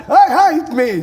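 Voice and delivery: high, loud mock shout down the phone; excited calling out. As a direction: imitate calling out to be recognised. Imitates himself calling out on phone.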